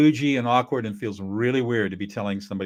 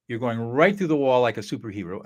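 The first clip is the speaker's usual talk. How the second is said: ordinary delivery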